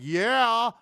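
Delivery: high, loud mock crowd cheer; mock crowd yeah. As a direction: shout it like a hyped crowd.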